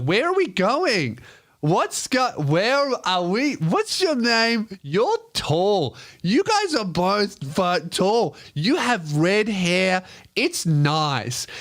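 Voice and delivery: put-on high, slow, dazed drunk girl babbling. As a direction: wander through it, lost and tipsy. Drunk girl, no idea where.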